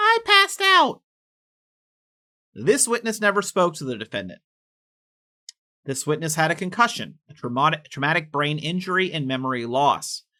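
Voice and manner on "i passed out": put-on very high, loud, whiny screech. Retelling a witness's account of the defendant's words: imitating whiny screaming. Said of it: "went back to screaming".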